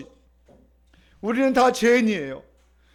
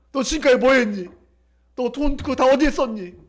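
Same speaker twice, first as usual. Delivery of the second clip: raised-voice mock scolding; 4 dB louder than usual. Preacher shows the scolding father did not give, louder and reproachful. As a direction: play a father demanding an account. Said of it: "꾸짖으셔요?".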